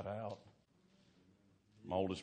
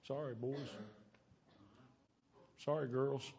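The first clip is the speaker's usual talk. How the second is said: put-on higher, softened apology to children; acted contrite parent, raised voice; 6 semitones higher, 5 dB quieter than usual. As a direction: plead gently, pitched up. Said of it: "get them to an altar and say".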